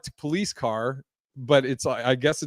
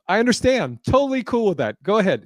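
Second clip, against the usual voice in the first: mock casual; 6 semitones higher than usual. Feigning calm as she leaves.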